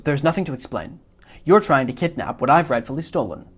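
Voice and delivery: a hint of a fussy, self-satisfied villain; Wallace Shawn's Vizzini. Teacher reading Vizzini's lines to the class, mild smug imitation. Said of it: "mimicking Wallace Shawn's inflection".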